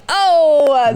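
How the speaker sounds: ordinary delivery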